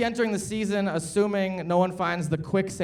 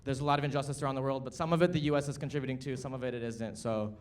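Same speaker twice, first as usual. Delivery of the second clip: lower, softer, subdued statement; sober, serious; 4 semitones lower, 5 dB quieter than usual. Real, not acted. Host acknowledging Gaza before the show, sober and subdued. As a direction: drop the showmanship and speak gravely.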